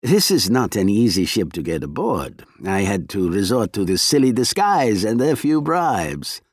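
lightly voiced sly Russian agent; a hint of a smooth, menacing spy.

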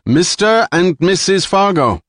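high, loud, icy summons; menacing call. Acted. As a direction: hail them coldly before the threat. Jilan threatens hostage's friends.

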